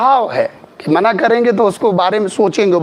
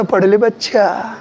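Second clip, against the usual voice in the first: slower, gently coaxing a pupil; a touch of tenderness, unhurried; lightly affectionate coaxing; 2 semitones lower, slower than usual. Retold or imitated. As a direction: imitate fond teacherly encouragement, drawn out. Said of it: "तभी तो मैं काले प्यार से पढ़ाता था".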